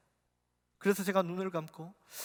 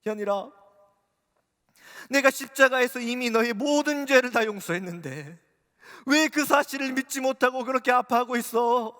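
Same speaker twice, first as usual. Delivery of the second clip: voice of Jesus; 7 semitones higher, 7 dB louder than usual. Retold or imitated. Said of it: "주님이 이렇게 말씀하셨어요".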